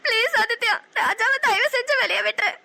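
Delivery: tearful pleading. Acted. Begging villain to free lover.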